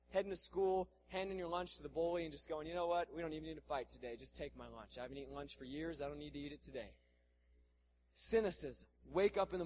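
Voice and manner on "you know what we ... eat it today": soft, low voice of giving in; meek surrender. Acted. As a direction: give up quietly to the bully. Acting out a bullied kid giving in.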